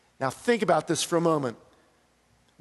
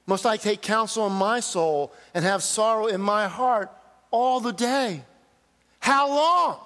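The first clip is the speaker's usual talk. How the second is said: pleading cry; 2 semitones higher than usual. Acted. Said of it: "Listen to these verses and hear the cry".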